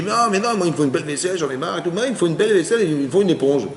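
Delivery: a light mock of the stubborn wife; imitating a stubborn wife. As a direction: whine it out like a wife who wants her dishes. Retelling a stubborn wife's complaint.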